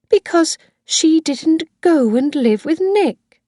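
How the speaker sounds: put-on high, loud, overwrought old woman admitting the killing; Missus Harvey confessing. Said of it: "Missus Harvey began to cry".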